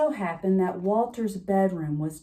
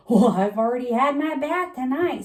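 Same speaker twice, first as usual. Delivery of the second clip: put-on cheerful boy; 5 semitones higher, 7 dB louder than usual. A narrator's reading. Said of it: "said Walter".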